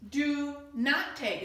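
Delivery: slow, weighty "not"; slow demo with "not" stressed. Shown as a demonstration. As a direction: spell out the negative, leaning on "not". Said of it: "Not indicates a negative statement".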